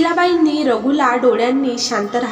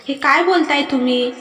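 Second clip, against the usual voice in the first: higher, startled disbelief; astonished; 4 semitones higher than usual. Acted. Wife stunned at being sent to parents, astonished. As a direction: caught off guard, rising in shock. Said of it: "Sarika चकित होऊन म्हणाली".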